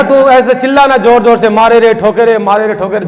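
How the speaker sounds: egging her on to wail; lightly voiced husband, excited; mock urging. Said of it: "जोर से चिल्लाना".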